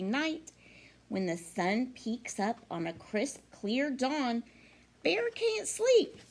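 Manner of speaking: lively picture-book read-aloud with singsong rhymes; reading to children. Acted. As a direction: read it like story time for little kids. Teacher reads picture book aloud.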